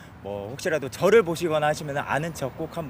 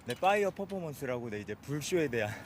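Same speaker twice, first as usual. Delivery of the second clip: out of breath. Real, not acted. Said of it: "지금 숨이 차고 계신데".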